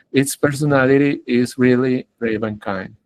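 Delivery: American accent, "personality" with a flapped t; flowing North American read, tapped t; North American English. Shown as a demonstration. Teacher models consistent American speech for students, North American accent. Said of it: "coherente con el inglés norteamericano".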